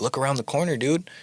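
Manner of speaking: hushed warning, barely voiced; whispering. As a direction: whisper it urgently. Warning roommate about intruders.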